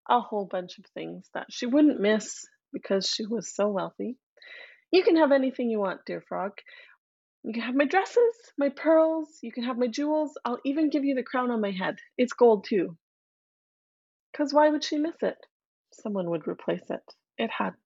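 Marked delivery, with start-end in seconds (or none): 4.9-13.0 higher, quick, careless offering of riches; higher and brisk, a careless rich girl; spoiled princess. Acted. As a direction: toss it all off like it's nothing.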